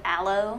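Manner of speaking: aloe said AL-oh; short a at the start of aloe; other people's pronunciation. Retold or imitated. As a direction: aloe in two syllables, ending on oh. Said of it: "weirded out when people say".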